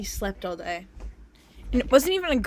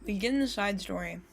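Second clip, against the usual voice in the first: cracked, quiet voice; voice cracking; 4 dB quieter than usual. Real, not acted. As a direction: let the voice crack. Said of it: "My voice cracked".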